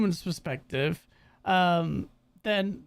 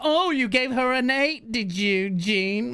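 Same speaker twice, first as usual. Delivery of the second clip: slow, raised-pitch mock interrogation; mock jealous accusation; 4 semitones higher, slower than usual. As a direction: play a suspicious partner catching him out. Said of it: "they'll be like".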